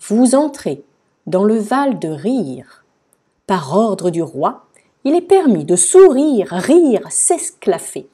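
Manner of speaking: drawn-out, emphatic sign reading; proclamation. A narrator's reading. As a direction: proclaim it grandly, word by word. Lecture solennelle de la nouvelle pancarte. (proclamation solennelle)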